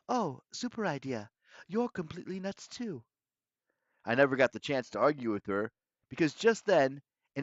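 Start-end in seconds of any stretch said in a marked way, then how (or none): 0.1-3.0 sarcastic retort. A narrator's reading. Girl's sarcastic hushed retort.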